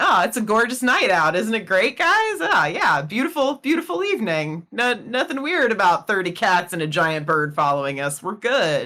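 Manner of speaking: put-on overly casual, swooping, breezy, oblivious tone. Retelling how the group walked through suspicious situations: imitating acting oblivious. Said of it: "walk through these very suspicious situations, going".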